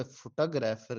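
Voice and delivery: फोटोग्राफर run together as "fuh-ta-grapher"; English pronunciation. Shown as a demonstration. Teacher showing how English speakers say it, फोटोग्राफर as fuh-tagrapher. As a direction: say फोटोग्राफर as one English word, short first syllable. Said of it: "इसी तरह बोलेगा".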